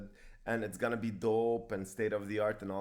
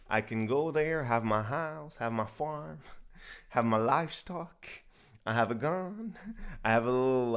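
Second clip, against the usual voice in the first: put-on southern accent. Describing a dream homestead on request, light southern accent. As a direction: play at being a southerner, drawling a little. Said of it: "so I can do my best southern accent".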